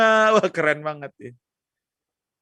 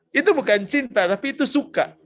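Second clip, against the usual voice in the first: louder repeat; 3 semitones higher than usual. Shown as a demonstration. Preacher repeats the answer for the young crowd, louder. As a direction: say it again, louder and firmer.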